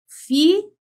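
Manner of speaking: FILHA split as fiii, then lha; drawn-out syllables. Shown as a demonstration. Teacher counting sounds in a word, syllables drawn out. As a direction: stretch and lift the first syllable of FILHA. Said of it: "Veja, eu tenho".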